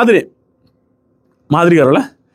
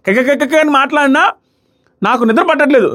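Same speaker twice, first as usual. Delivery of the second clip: mimicking whispering; 9 semitones higher than usual. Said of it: "ఇది same చేశారు".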